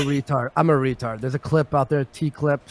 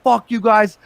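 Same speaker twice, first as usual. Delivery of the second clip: higher, louder mock outburst; retold yelling; 6 semitones higher, 5 dB louder than usual. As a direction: act out yelling at an audience. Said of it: "I'm yelling at the audience".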